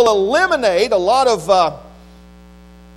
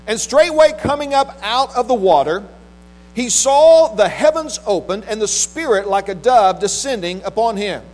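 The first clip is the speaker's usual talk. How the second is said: measured, solemn Bible reading from the pulpit; scripture reading; 3 semitones lower than usual. Acted. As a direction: read scripture out with weighty pauses between phrases. Reads scripture aloud to congregation.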